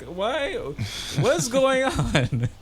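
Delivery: high, drawn-out wail with a laugh; mock bawling. Dreamer begging the kids for answers, mock bawling.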